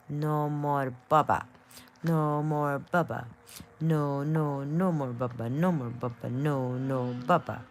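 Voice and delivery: loud, emphatic repeated refusal, drawn out; loud mock command. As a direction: lay down the law loudly, playfully. Acts out scolding Baba on request.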